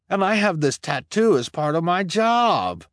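high anxious explanation; pleading. Acted. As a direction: explain desperately. Jacques pleads.

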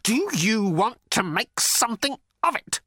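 high, quavering challenge; frightened defiance, word by word. A narrator's reading. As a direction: dare a giant, voice wobbling. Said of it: "could not keep the quavering out of his voice".

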